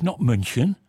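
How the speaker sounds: München said the German way; mock German München. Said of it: "I talk about Munich".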